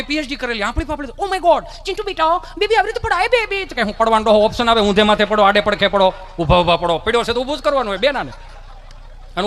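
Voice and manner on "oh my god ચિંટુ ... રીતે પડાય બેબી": much higher, gushing doting mom; fussing mother. Acted. Over-protective mother rushes to her fallen son, high and gushing. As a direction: gush over the fallen baby.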